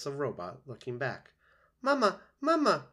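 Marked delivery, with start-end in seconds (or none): 1.8-2.9 put-on very high, loud baby-bird cries; peeping gosling. A narrator's reading. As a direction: peep it out like a hungry hatchling calling its mother. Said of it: "peeped the gosling".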